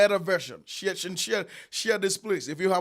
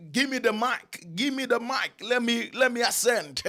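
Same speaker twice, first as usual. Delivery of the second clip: mock eager preacher; 5 semitones higher than usual. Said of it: "but you just think that".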